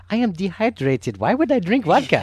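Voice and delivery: half-hearted mock Russian accent, playful. Director imitating his Russian actress refusing vodka in a Russian accent. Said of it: "in her charming accent, she goes".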